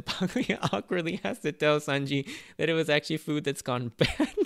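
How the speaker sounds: laughing through the words; laughing retelling. Real, not acted. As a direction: tell the gag while cracking up. Amused retelling of a gag.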